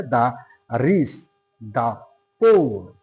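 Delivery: দা said as "daa" before রিস and পোর; দা as "daa", a short break before each word; pronunciation of দা. Shown as a demonstration. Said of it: "এরকম উচ্চারণ কিন্তু হবে".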